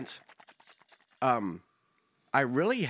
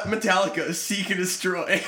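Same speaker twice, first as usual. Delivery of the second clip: laughing while reading. Real, not acted. Reading banned songs, cracking up.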